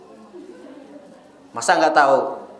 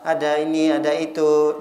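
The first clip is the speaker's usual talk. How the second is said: hushed, courteous hotel-desk voice; soft polite greeting; 5 semitones lower than usual. Retold or imitated. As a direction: greet a guest gently and sweetly. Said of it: "Ditanya dengan kata-kata yang lembut".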